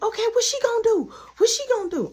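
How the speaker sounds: high, loud, fast taunt; defiant challenge. Retold or imitated. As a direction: throw it back as a dare. Acted defiant challenge in quarrel.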